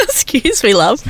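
playful British imitation, voice lifted; British accent. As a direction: copy the singer's British accent. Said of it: "Oh, so British".

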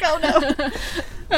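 high little "oh no"; mock dismay. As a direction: play it as a startled groan. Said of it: "I was like".

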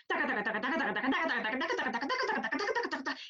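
rapid repeated taca taca, climbing in pitch; imitated mental noise. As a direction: rattle it off like chatter in your head. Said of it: "está ese ruido". (imitando un ruido mental, taca taca cada vez más agudo)

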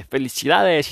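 lightly exclaimed congratulation; mock congratulations. Gods greeting the mangled dead arrival, mock congratulations. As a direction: congratulate with playful flourish.

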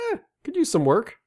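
high, laughing dismissive eh; mock husband critique. Husband teasing wife's outfit, laughing mock critic. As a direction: toss off the verdict through a laugh. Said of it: "like, you know".

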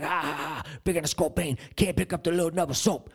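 spoken mock laugh, then a taunt; mocking laughter. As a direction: imitate a gang jeering at him. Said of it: "we're all gonna be laughing at you".

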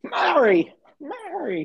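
high shouted Mary, It's a Wonderful Life; yelling Mary. Retold or imitated. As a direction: belt the name out high. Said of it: "There it is. I was waiting for it".

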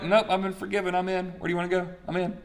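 lightly voiced eager prophet; eager Isaiah. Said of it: "and Isaiah like".

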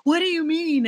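high, loud incredulous question; baffled. Retold or imitated. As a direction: sound totally baffled. Retold baffled colleagues.

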